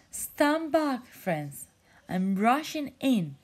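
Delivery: loud heroic yell. Acted. Jellyfish yells to friends before rushing in, loud. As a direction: charge in, calling them back. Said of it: "yelled Spencer".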